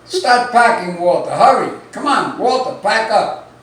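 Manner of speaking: loud, high, urgent nagging; frantic wife hollering; yelling at husband. Acted. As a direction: shout him into hurrying.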